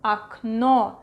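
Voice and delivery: "Окно" said ak-NO; "Окно" starting on A, stress on NO; unstressed O as A. Shown as a demonstration. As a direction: model "Окно" with stressed final O. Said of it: "A, окно".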